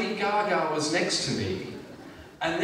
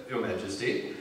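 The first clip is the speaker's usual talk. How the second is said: much lower-pitched formal murmur; deferential greeting; 11 semitones lower than usual. Acted. Comedian greeting the Queen as she shakes his hand, low deference. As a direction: drop low and greet respectfully. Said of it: "and I do the".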